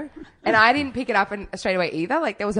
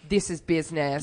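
deadpan; 4 semitones lower, 4 dB quieter than usual. Retold or imitated. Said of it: "they are, like, deadpan".

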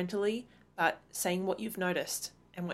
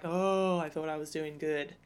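sheepish mom; 3 semitones lower than usual. Retold or imitated. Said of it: "I'll be like".

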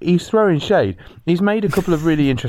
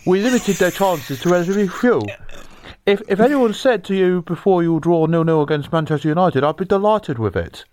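put-on Roy Hodgson as old Chinese man. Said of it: "done Roy Hodgson as an old Chinese man".

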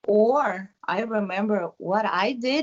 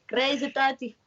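playful release; 6 semitones higher than usual. Retold or imitated. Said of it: "a box that I need to".

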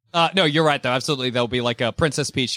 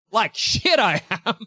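defiant Peach; 5 semitones higher than usual. Retold or imitated. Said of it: "she'll tear her dress and be like".

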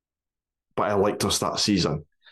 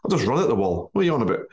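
put-on rough Polish accent, a touch higher; 3 semitones higher, faster than usual. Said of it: "that's my best Polish accent ever".

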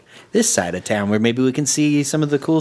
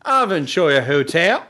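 mock Australian accent. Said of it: "that was Australian".

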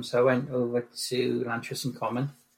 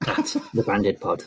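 low, sultry plug; 5 semitones lower than usual. Shown as a demonstration. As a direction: say it deep and smooth. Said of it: "That was awful".

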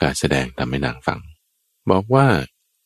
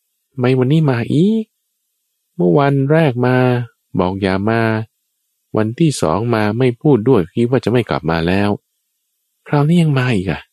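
higher, puzzled inner voice; puzzled annoyance; 5 semitones higher than usual. Acted. Queen wonders why the suitor returns, higher and baffled. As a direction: wonder why he keeps coming back. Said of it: "พระนางก็คิดว่า".

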